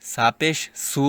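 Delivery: সা with a hard plain s, like সিন; wrong pronunciation. Shown as a demonstration. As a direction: say সা পেশ সু with an ordinary hissed s. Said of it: "তাহলে ভুল হবে".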